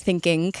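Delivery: "thinking" said as "think-ink"; -ing ending in a K. Retold or imitated. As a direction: imitate her K at the end of "thinking". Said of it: "she does the same thing".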